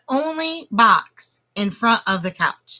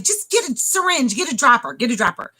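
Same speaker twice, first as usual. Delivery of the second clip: mild mock yell, starting high; insistent, repeated demand; retold screaming; 3 semitones higher than usual. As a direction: re-enact urgent orders without much volume. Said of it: "So I'm screaming".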